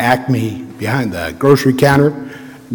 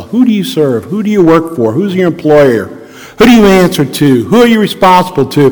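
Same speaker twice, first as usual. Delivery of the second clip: preaching; 2 semitones higher than usual. Acted. Preacher's rhetorical questions.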